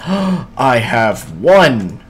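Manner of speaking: gasping with delight at the find; thrilled, gasping discovery; excited gasp. Real, not acted. Gasp at finding emerald.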